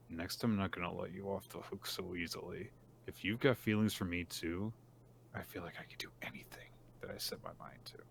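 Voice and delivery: hushed private thought, sinking to a whisper; inner thought. Retold or imitated. Kana thinking to herself about Iamori, hushed inner voice. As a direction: voice it very softly, as if to herself. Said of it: "she thinks to herself".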